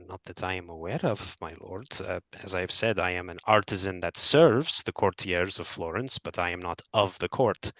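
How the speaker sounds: lightly voiced, quiet and polite; Philomena, a hint of formal artisan. Artisan answers the worried lord, quietly polite. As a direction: answer the lord carefully, a touch hushed.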